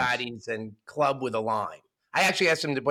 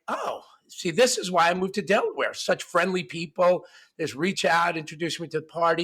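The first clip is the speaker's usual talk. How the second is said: eager Biff; 4 semitones higher than usual. Acted. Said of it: "And Biff's like".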